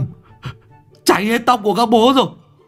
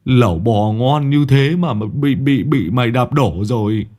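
bitter cursing; 2 semitones higher than usual. Acted. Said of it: "cay đắng chửi".

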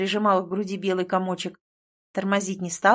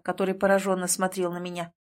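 ordinary delivery

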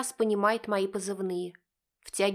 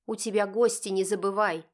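cold. Acted. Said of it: "холодно напоминает Лариса".

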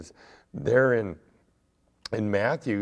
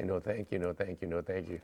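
polite refusal; 2 semitones lower, 3 dB quieter than usual. Shown as a demonstration. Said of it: "You just politely say".

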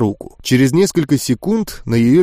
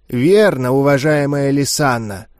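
dry. Acted. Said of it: "сухо проговорил Горх".

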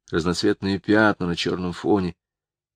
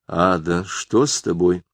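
cold question. Acted. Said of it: "холодно заговорил Герман Петрович".

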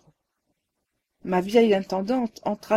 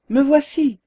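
forced, louder cry, pitched higher; crying out with effort; 5 semitones higher, 6 dB louder than usual. A narrator's reading. Narrator finally finds his voice before the ghost, strained cry. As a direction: push the words out with effort. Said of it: "m'écriai-je enfin avec effort".

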